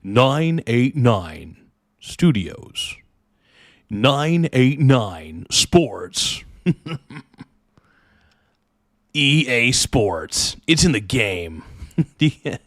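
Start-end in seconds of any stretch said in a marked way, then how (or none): 0.0-6.4 989 Sports announcer parody. Retold or imitated. Parodies the intro with 989 Studios. 9.2-11.6 EA Sports announcer. Retold or imitated. Streamer nails the EA Sports intro for chat, booming. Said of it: "Do you guys think I got the".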